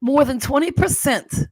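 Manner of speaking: put-on East Coast storytelling accent; Jersey accent. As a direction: tell it chattily in a mock Jersey accent. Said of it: "okay, I'm gonna do my accent".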